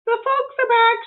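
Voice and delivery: eager, innocent housekeeper talking to herself; Amelia Bedelia voice. Acted.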